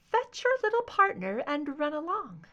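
high, light and softly dismissive; a cool, airy brush-off; soft crystalline voice. Acted. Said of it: "Deborah's crystalline voice rang softly".

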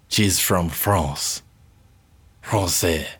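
low, slow, hammed-up French accent; mock French accent. Co-host hams up a listener's letter in a fake French accent. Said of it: "It's just accent".

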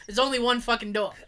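pointed mock questions, then a drop; sassy backtalk. Patient sassing the doctor about directions, cheeky. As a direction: play dumb to needle them. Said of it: "I'm just sassing him back".

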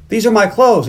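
retold indignant discovery; mock indignation. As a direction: protest it as the startled owner. Retells her discovering her clothes.

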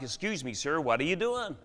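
lightly imitated Boston accent; attempted Boston accent. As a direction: have a rough go at a Boston accent. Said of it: "he says it in a Boston accent that I can't, uh, mimic very well".

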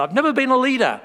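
chuckling through the words; laughing aside. Real, not acted. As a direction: laugh at yourself while saying it. Self-mocking aside with laughter.

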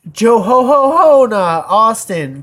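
loud, high Santa laugh worked into "Ho Ho Ho"; jolly mock Santa call, drawn out. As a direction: boom out "Ho Ho Ho" slowly like Santa. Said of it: "'cause Santa".

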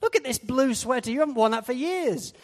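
a hint of a wife tutting at an old sweater; wife scolding. Wife clearing out the wardrobe, mild scolding. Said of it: "my wife goes into my wardrobe and she says".

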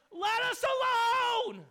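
high, loud, slow demonic shout. Acted. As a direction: cry out like a possessed man. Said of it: "I can't do a very good demon voice".

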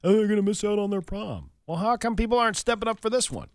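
high-pitched mock concern; imitation of sympathetic fussing; mock lament. Mimics people lamenting a missed prom.

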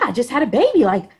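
high, loud, hyped-up boast; retold bravado. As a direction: build to a gleeful high-pitched holler. Acts out her bold thought.

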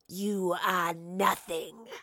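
extremely slow, sinister creature voice; snarling wraith. A narrator's reading. Wraith dismisses the defiant professor, snarling. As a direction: stretch each word into a menacing rasp.

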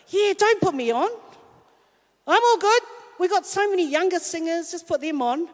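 polite protest you secretly hope they ignore; insincere breezy brush-off. Retold or imitated. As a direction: say it like you don't mean a word of it. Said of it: "you say something but you don't mean it".

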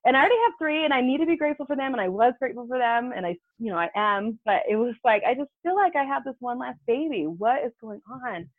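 woman venting about another miscarriage, high and despairing; exasperated lament. Retold or imitated. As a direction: plead to the sky. Venting about another lost pregnancy.

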